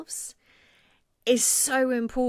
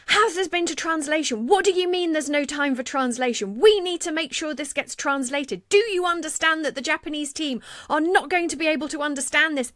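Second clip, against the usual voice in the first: raised, pressing demand for translation; indignant insistence; 5 semitones higher than usual. Retold or imitated. Colleague insisting in the room that content gets translated, indignant. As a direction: push back hard like an outraged advocate.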